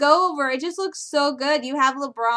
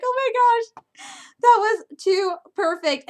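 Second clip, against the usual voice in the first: delighted; 7 semitones higher than usual. Retold or imitated. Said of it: "and I'm like".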